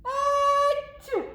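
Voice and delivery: high hammed-up sneeze; big fake sneeze. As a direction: let out a huge mock sneeze. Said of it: "I sneezed a great sneeze".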